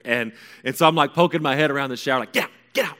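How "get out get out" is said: high, loud panicky shooing; acted-out yelp round the curtain; shouted order. Son pokes head round shower curtain at mom, shouting.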